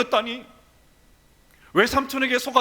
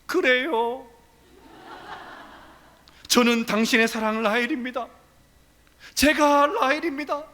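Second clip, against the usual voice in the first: higher, sweet pretending bride; coy bride; 5 semitones higher than usual. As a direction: Leah posing as Rachel, playfully. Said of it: "레아는 이렇게 말했을 것입니다".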